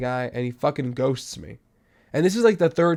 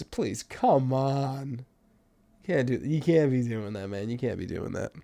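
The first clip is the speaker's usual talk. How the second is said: soft pleading; 5 dB quieter than usual. Acted. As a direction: murmur it like a let-down friend. Pleading, disappointed.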